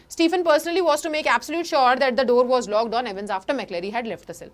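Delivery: slow, careful reading of the English passage; slow text reading. Shown as a demonstration. Teacher reading the book passage to students, slow reading. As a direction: read each word out for the class.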